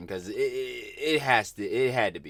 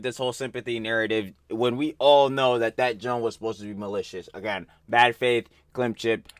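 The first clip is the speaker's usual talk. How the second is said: heated rant; 4 dB louder than usual. Real, not acted. Ranting at Ian.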